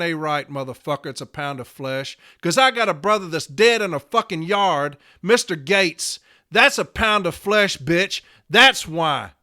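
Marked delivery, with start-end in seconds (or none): 2.4-9.3 heated, forceful rebuke; angry. Real, not acted. Member to union leader over his dead brother, angry. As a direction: hit each phrase with real anger.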